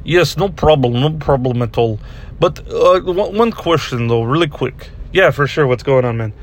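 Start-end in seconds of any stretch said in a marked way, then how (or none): 0.0-4.9 put-on Russian interviewee's accent. Russian interviewee asks host one quick question, in a Russian accent. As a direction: answer politely in a Russian accent. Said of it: "do this Russian accent you do".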